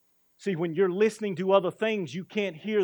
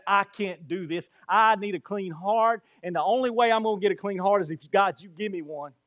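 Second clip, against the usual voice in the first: louder, higher cry for a clean heart; louder, higher pleading cry; urgent crying out; 3 semitones higher, 5 dB louder than usual. Retold or imitated. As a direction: push it out like a desperate plea. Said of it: "where you say".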